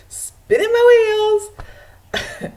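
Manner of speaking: high, loud, drawn-out complaint; mock exasperation. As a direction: stretch it out in comic frustration. Mock exasperation at slow progress.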